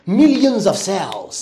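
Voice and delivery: Millions of cells said very slowly; slow English model. Shown as a demonstration. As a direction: model the phrase word by word. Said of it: "میلیون ها سلول". (کلمه به کلمه و خیلی آرام)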